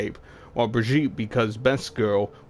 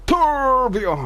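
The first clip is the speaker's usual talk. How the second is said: much higher, louder shriek; calling out to Torbjorn again, louder; 7 dB louder than usual. Acted. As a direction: shriek the name even harder. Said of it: "we're not doing that again".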